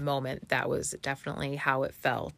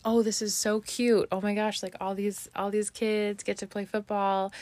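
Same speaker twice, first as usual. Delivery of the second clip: higher-pitched, mildly gushing inner voice; retold gushing; 5 semitones higher than usual. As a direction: coo over how cute the kids are. Retells her first gushing thought.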